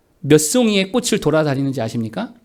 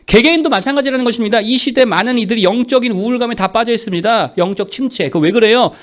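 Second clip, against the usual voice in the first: forceful preaching; 5 semitones higher, 5 dB louder than usual. Real, not acted.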